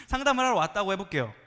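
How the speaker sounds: ordinary delivery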